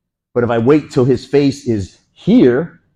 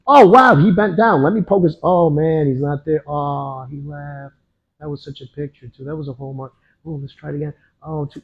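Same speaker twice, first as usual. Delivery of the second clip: mock amazement; 3 semitones higher than usual. Coach mimicking a fighter who pauses after hitting, mock awe. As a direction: play a dawdler admiring each poke, voice raised. Mocking a slow, admiring reaction.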